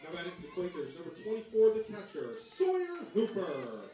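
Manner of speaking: booming PA voice echoing over the field; echoing stadium announcer. Real, not acted.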